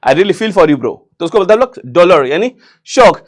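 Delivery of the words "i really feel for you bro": a hint of a friend feigning sorrow; showing sympathy. Shown as a demonstration. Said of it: "जब आप किसी का शोक दिखाते हो".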